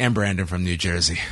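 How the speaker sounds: voice sinking low, dropping at the finish. Reading a list of winners, ending on the last name: voice dropping. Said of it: "your voice just dropped at the very".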